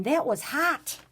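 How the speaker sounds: high, loud exclamation; exclaiming. Shown as a demonstration. Teacher reading an exclamation sentence, high and loud. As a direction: blurt it out like you got burned. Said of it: "Exclamation point".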